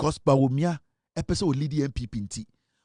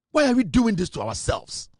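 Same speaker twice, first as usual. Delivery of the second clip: exasperated appeal; 5 semitones higher than usual. Real, not acted. Repeats exasperated appeal to party.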